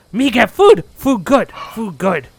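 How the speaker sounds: high, loud bird-creature call; squawky birdman chef. Acted. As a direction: announce yourself like a clumsy bird chef. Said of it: "Croc goes".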